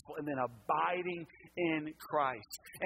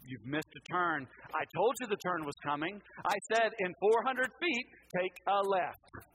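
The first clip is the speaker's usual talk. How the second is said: mock scolding, pitch and volume climbing; imitation of an exasperated satnav; mad GPS voice. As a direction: chide the driver, building in emphasis. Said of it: "I felt like she was mad at me".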